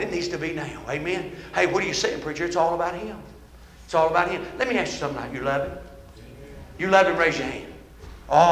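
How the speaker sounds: earnest altar appeal. Real, not acted. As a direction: gently urge the congregation to respond. Preacher's quiet appeal.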